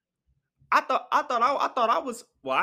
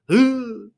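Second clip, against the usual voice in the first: gasp; 6 semitones higher, 8 dB louder than usual. Real, not acted. Reacts to noise from upstairs.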